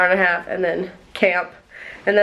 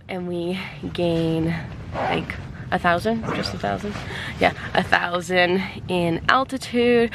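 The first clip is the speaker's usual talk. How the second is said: winded, short of breath while talking; out of breath on the uphill climb. Real, not acted. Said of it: "I'm already out of breath talking".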